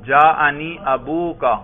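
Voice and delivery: ابوکا slowly, with a long "oo", a-boo-ka; waw ending. Shown as a demonstration. Teacher giving an example of raf' as waw, waw ending. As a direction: draw out the u in ابوکا. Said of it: "رفع واو کی صورت میں آئے گا".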